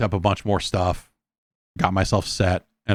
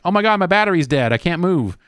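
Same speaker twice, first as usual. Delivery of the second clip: fake kid whine; 9 semitones higher than usual. Imitating the fake kid gamer.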